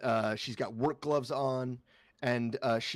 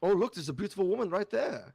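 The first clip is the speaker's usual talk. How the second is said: higher, fast mock-excited call; teasing voice; 7 semitones higher, 3 dB louder, much faster than usual. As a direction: tease him by pointing her out. GM teasing with changed voice.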